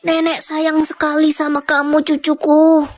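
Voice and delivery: lightly voiced sickly granny, worried; grandma softly asks her grandson why he looks pale; frail grandma.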